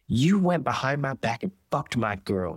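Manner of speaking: hurt, heated yell; angry yell. Acted. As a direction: Jan throws the betrayal in her face. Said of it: "Jan yelled".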